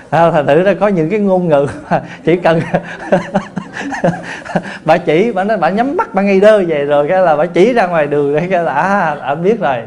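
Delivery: laughing while talking. Real, not acted. Laughing while retelling the story.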